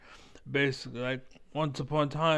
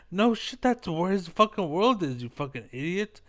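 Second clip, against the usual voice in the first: furious rant, higher at the start and fast at the end; angry outburst; 5 semitones higher than usual. Real, not acted. Ranting at the commentator on screen.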